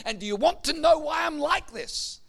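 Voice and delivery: imitated aggrieved complainer. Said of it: "talking about how bad things were".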